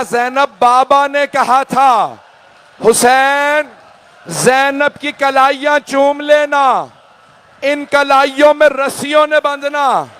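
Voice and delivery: a brother's mournful recollection, cried out; grieving plea. Acted. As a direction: lament it slowly, then cry out. Husain recalls father's grieving instruction.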